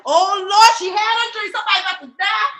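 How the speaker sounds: hammed-up panic at the omen; mock dread. Reacting to the aunt's dream with mock dread. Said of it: "And you be like".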